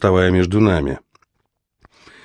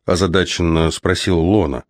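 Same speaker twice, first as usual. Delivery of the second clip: ordinary delivery, nothing marked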